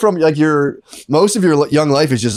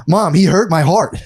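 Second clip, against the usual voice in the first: slow, tearful little boy voice, hammed up; hurt little kid; 3 semitones higher, slower than usual. Cousin's kid telling his mom the boys hurt him, slow mock whimper. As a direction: whimper it like a hurt eight-year-old.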